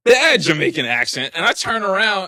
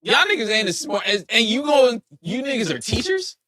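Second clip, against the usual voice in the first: incredulous rant; 5 semitones higher than usual. Retold or imitated. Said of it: "I was just like".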